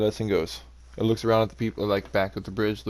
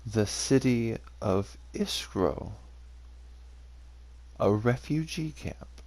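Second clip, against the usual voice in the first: amused disbelief; 5 dB quieter, slower than usual. Acted. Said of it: "he kinda chuckles a little bit and goes".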